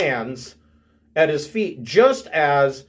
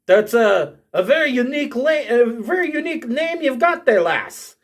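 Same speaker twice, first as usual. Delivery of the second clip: dwarf; 6 semitones higher than usual. Acted. Dwarf remarking on the stranger's unusual name, amused. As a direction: play a lilting dwarf, pitched up. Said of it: "And the dwarf says".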